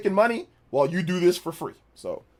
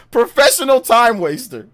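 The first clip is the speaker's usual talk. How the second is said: laughing through it; 5 semitones higher, 6 dB louder than usual. Real, not acted. Laughing repeat of his own insult.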